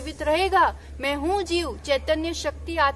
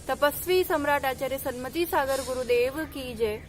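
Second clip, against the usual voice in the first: ringing call of praise to the gurus; calling out jai to the gurus; devotional acclamations. Acted. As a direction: lead the crowd in jai calls.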